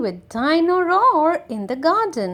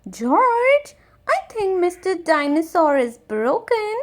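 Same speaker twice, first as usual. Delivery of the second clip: a lightly voiced little girl, higher pitch; Peppa; 4 semitones higher than usual. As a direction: speak as the little sister breaking bad news gently. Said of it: "Peppa says".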